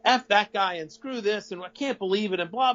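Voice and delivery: mildly exasperated griping, retold; grumbled mock rant. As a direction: act out venting to a colleague, not at full force. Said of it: "I'm, I'm bitching".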